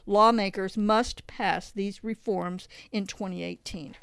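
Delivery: measured, emphatic reading of a report; formal read-aloud voice; article read-aloud. Real, not acted. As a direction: read it out clearly, phrase by phrase. Reads article's conclusion aloud.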